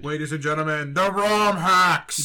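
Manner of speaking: slow, grand stage announcer. Pretend. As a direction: introduce the band like a host. Announcing a band name.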